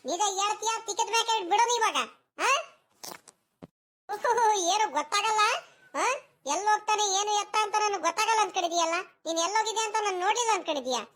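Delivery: high-pitched, threatening telling-off; scolding. Acted. Grandmother confronts grandson over his lie, scolding. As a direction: catch the child out in a lie.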